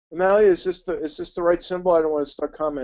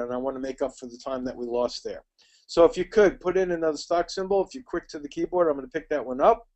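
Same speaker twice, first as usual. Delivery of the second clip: talking fast; 2 semitones lower, 4 dB quieter, faster than usual. Real, not acted. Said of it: "Though I'm talking more rapidly than I normally do, sound like an auctioneer".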